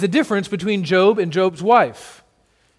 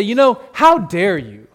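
mock arrogant Jesus; 2 semitones higher than usual. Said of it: "He doesn't say".

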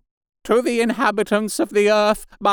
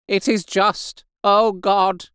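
high, raised voice crying out to God; loud lament to God; 11 semitones higher, 4 dB louder, slower than usual. A narrator's reading. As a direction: declaim it like an anguished penitent. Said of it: "began to talk aloud instead of whispering".

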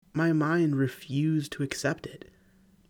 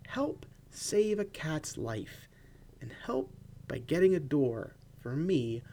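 slow, pleading with mock drama; mock dramatic plea; 3 semitones higher, 3 dB quieter, slower than usual. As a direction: beg for the cat in jest. Joking plea about the cat.

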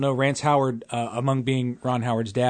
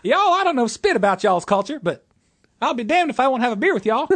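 Andy Griffith impression; 8 semitones higher than usual. A bad Andy Griffith impression for the podcast co-host. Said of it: "worst Andy Griffith impression".

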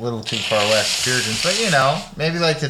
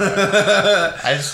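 into a cup; 8 semitones higher than usual. Acted. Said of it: "I love how you pick up my cup".

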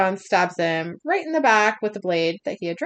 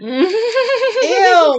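grossed-out squeal; high laughing ew; disgusted; 11 semitones higher, 7 dB louder than usual. Real, not acted. Disgusted reaction, high and loud.

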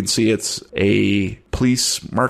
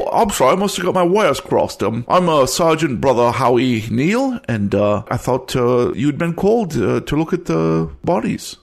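high-pitched character voice; 5 semitones higher than usual. Acted. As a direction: chatter high like a nervous local cop. Police NPC speaking.

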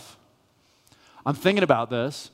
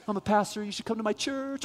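mock angry yell; 8 semitones higher, 6 dB quieter than usual. Angry driver yelling at pedestrian.

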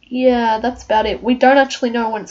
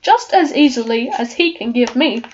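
lightly voiced lion, timid and stammering; Cowardly Lion; slower than usual. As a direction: read the lion's lines with a nervous stammer. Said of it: "I am the Cowardly Lion".

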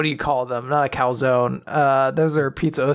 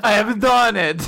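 triumphant cartoon Italian; proud, put-on Italian; mock Italian accent; 4 semitones higher, 4 dB louder than usual. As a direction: announce victory in hammed-up Italian.

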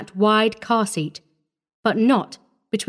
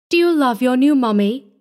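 sweetly coaxing, a little higher; 4 semitones higher, 3 dB louder than usual. A narrator's reading. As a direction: coax a small child gently. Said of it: "she coaxed".

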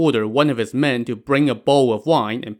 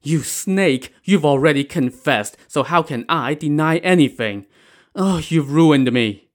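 higher-pitched, reproachful wail; lamenting; 4 semitones higher, 3 dB louder than usual. Acted. Old woman blames her confessed accomplice, lamenting. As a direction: lament bitterly, drawing out the last cry. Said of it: "Missus Wang lamented to Pan Jinlian".

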